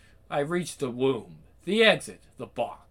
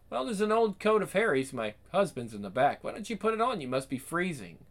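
woman driver voice; 5 semitones higher, faster than usual. Acted.

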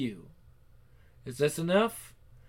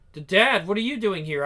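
startled stammer; 4 semitones higher, 6 dB louder than usual. Acted. Caught, startled by father.

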